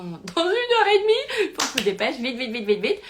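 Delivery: high, stretched cry into hurried chatter; mock panic. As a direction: act out a frantic rush. Acting out her panicked hurry.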